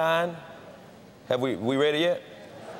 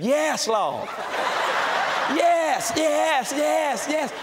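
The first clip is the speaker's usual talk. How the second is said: put-on hollering child; 11 semitones higher, much slower than usual. Preacher imitating a spanked grandson hollering yes Lord. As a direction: wail it like a child being spanked. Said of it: "sounded like he was getting saved".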